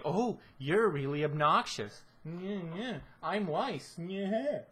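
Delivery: lightly voiced snobby Weiss; mocking Weiss. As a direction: sneer it like a bratty princess.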